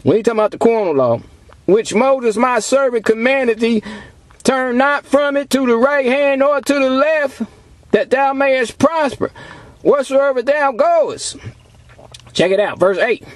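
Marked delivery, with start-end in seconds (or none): 1.7-11.4 slow, measured scripture declamation; preacher reciting scripture slowly; scripture reading. Acted. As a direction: read the verse out deliberately, word by word. Reads scripture aloud to congregation.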